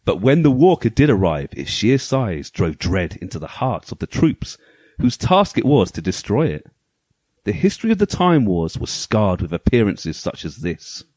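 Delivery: dramatic storybook narration; story voice. Pretend. Host reading the game manual's story to co-hosts, story voice. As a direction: read it out like a pulp sci-fi tale, measured and weighty. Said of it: "my story voice on".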